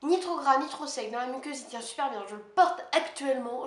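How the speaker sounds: hurried, enthusiastic product rundown; talking too fast. Real, not acted. Vlogger praises her eye pencil, talking a bit too fast. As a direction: rattle through the pencil's qualities. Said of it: "je parle vachement vite".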